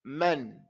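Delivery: "Man" with a full open fatha; whole haraka. Shown as a demonstration. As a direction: give the vowel in "Man" its whole beat. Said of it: "It's a whole haraka".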